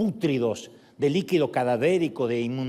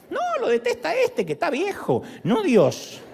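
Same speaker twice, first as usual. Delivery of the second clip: joking laugh; 12 semitones higher than usual. Real, not acted. Joke that the old man hates rock.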